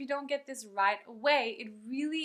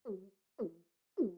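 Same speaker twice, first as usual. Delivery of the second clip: hummed uh, mouth shut; like the end of a swallow; closed-mouth uh; 3 semitones lower, 4 dB quieter, much faster than usual. Shown as a demonstration. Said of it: "with a closed mouth".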